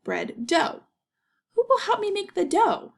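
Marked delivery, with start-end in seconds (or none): 1.5-2.9 much higher, louder hen voice; hen asking for help. Acted. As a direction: chirp it up high like a busy hen. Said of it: "she asked".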